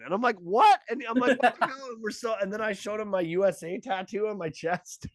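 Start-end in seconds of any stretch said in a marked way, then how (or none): 0.4-1.9 rising, higher each time, baffled; stunned disbelief. Retold or imitated. Comic to the guy who isn't American, climbing surprise. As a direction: pitch climbing in mounting shock. Shocked reaction to Moncton news.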